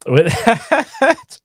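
sassy sign-off through a laugh. Real, not acted. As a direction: say it with sass, laughing. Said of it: "You said that sassy".

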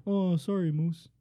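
mock apologetic Canadian accent. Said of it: "I can't do that accent".

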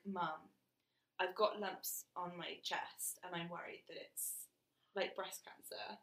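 retold hushed, slow confession; worried confiding. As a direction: confide it softly and hesitantly, as a worried child to mum. Worried child confiding in her mum.

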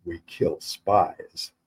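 low, slow menacing hiss; hissed threat. Acted. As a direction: hiss it slowly into his ear. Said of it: "and a voice hissed".

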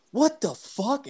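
high-pitched retold astonishment; mock disbelief. Pranksters after being hung up on, mock disbelief. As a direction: squeal it as an incredulous kid.

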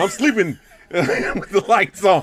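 loud, high, breaking into laughter; comic alarm at being caught; mock alarm. Acts out being caught watching a film.

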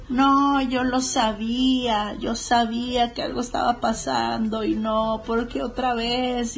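slow, drawn-out mock lament; imitated crying wife. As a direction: lightly act out a tearful wife, dragging the words. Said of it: "se suelta chillando la esposa". (imitando sin exagerar a una esposa que llora)

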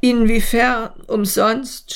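groaning question. Acted. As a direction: near tears, he groans the question. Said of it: "stöhnt er".

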